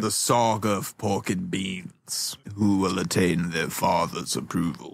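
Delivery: whispered mock-epic storyteller; hushed saga intro. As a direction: announce a legend in a hushed voice.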